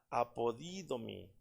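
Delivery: apodidomi with the stress on the "di"; acento en la i. Shown as a demonstration. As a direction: say apodidomi slowly, leaning on the accented i of "di". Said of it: "porque lleva acento en la I". (apodidomi, con el acento en la i de «di»)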